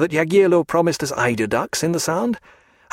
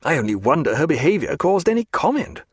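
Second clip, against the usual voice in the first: high, swooping outrage without shouting; scandalised character voice, pitched up; indignant tirade; 6 semitones higher than usual. A narrator's reading. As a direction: rail at the culprits, pitch leaping on key words. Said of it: "glaring angrily at Elsinore".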